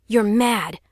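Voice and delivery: alarmed. Acted. Pulling Gareth back.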